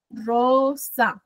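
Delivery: "Rosa" split slowly into two syllables, RO long; stress on RO. Shown as a demonstration. Teacher showing the iambic beat, sounding out "Rosa" by syllable. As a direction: hold the RO of "Rosa", then separate "sa". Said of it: "Ro. Suena más fuerte".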